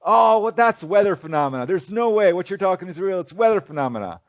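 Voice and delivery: imitating a heckler scoffing from the audience; hammed-up scoffing heckler; berating heckler. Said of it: "he starts berating me".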